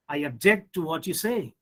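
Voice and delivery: "object" stressed on JECT in the sentence; second-syllable stress. Shown as a demonstration. Teacher giving an example sentence, "object" stressed on JECT. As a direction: say "object" as a verb, weight on JECT. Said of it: "shift the stress on the second syllable".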